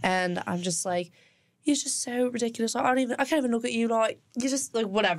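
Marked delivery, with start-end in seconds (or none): 1.6-5.2 put-on British accent. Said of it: "In a British accent, we're fighting".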